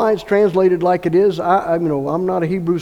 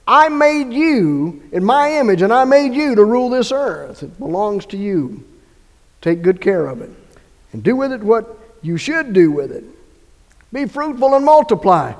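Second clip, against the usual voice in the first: voicing God; 3 semitones higher, 3 dB louder than usual. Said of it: "He just repeats it again for emphasis".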